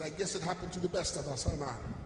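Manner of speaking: lightly voiced Jamaican accent; a hint of the Jamaican brother. Jamaican brother consoling a fellow bankrupt, light Jamaican accent. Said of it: "a Jamaican brother".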